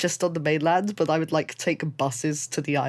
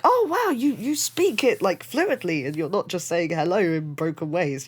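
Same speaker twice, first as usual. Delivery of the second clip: surprised; 3 semitones higher than usual. Retold or imitated. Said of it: "they will kind of be like".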